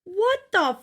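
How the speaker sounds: high, stunned what-the-hell; real shock at something vile; outraged disbelief. Real, not acted. Host reacts to the husband mocking his daughter, stunned outrage.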